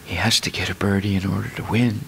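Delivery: low, soft murmured golf commentary; a mild imitation of a quiet golf broadcaster; hushed golf commentator. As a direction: narrate the putt like a hushed TV golf announcer. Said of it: "they also speak in whispers".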